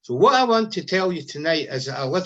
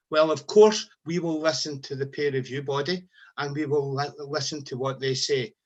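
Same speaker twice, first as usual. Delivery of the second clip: mealy-mouthed mockery; 3 semitones lower than usual. Nurses' leader mocking the government's mealy-mouthed thanks. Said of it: "a mealy-mouthed expression that went a bit like this".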